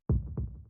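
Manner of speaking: breathy laugh. Acted. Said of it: "can't stop laughing".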